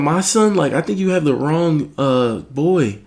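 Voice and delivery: high-pitched disbelieving mom voice; freaking-out mom. Retold or imitated. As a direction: imitate a mother in alarmed denial. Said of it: "My mom starts freaking out".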